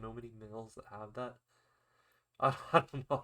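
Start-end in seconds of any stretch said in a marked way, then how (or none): 1.9-3.2 laughing, louder and higher; real nervous laugh. Real, not acted. Vlogger backs off a remark about males' beds, laughing. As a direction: laugh it off through the words.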